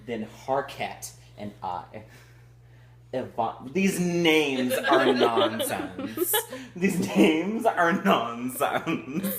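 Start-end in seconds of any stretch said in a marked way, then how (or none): 3.7-6.3 slow, laughing complaint. Real, not acted. Reading a silly book aloud, laughing at the names. 6.8-9.4 slow, laughing complaint. Real, not acted. Reading a silly book aloud, laughing at the names.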